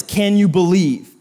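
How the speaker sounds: slow, drawn-out gossip; gossipy. Retold or imitated. Mimicking a gossip, slow and savoring. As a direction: savor each word like juicy gossip. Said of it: "Or they sound like this".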